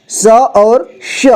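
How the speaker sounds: teacher contrasting स and श slowly. Shown as a demonstration. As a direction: slowly set स against श to show the difference. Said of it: "इसमें अंतर होता है".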